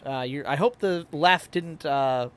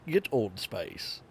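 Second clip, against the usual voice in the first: put-on Old Spice guy; 7 semitones lower, 3 dB quieter, much slower than usual. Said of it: "I have too much fun with my voices".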